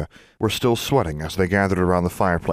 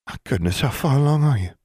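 higher, delighted Southern lilt; southern belle; 6 semitones higher than usual. A narrator's reading. Julia delighted at pregnancy.

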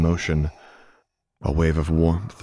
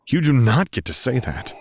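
Luke snapping; 8 semitones higher, 3 dB louder than usual. A narrator's reading. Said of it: "Luke snapped".

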